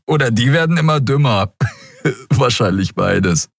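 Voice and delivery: high jeer breaking into a chuckle; acted amusement with a short laugh; amused, laughing. A narrator's reading. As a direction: voice a gleeful character, chuckle midway. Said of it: "Beide bogen sich vor Lachen".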